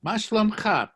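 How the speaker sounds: מה שלומך as ma shlomkha, high and clear; Hebrew greeting to a male. Shown as a demonstration. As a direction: model מה שלומך with a firm -kha ending.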